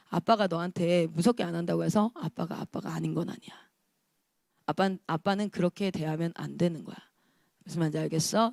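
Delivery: low, soft re-enacted dad talk; imitating a father's subdued, serious talking-to; quiet fatherly admonishing. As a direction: lay down the rule to a small child, low and hushed. Retold father's talk to scolded child.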